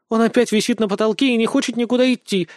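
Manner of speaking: indignant. Acted. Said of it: "возмущённо ответила Оксана".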